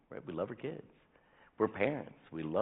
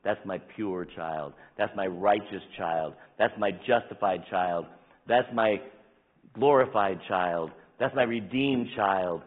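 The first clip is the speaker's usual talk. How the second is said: slow lines growing louder; slow building proclamation; 6 dB louder, slower than usual. Acted. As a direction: build each child phrase with more weight. Building list of God's declarations.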